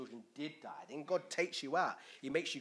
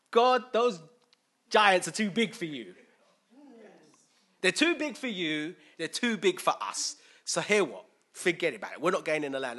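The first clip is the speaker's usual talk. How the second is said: loud, high, panicked moaning; fearful complaining; 3 semitones higher, 9 dB louder than usual. Acted. Israelites telling God the giants are too big, panicky and loud.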